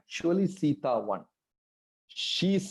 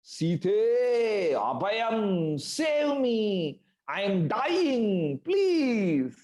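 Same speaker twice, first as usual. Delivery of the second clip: higher pitched cry for help; mock scream; 5 semitones higher, much slower than usual. A narrator's reading. Demon deer crying to Sita, a mild mock scream. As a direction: call out as if dying. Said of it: "Maricha screamed in Ram's voice".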